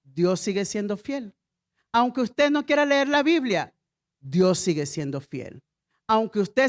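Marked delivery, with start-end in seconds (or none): 0.0-1.4 slow declaration. Shown as a demonstration.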